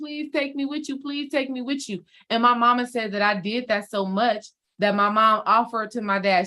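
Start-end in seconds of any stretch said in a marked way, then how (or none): 0.0-2.0 put-on soft, tearful little child's voice, crying and pleading. Retelling how she clung to her dad's leg as he left, acting out crying as a child. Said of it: "I'm just crying".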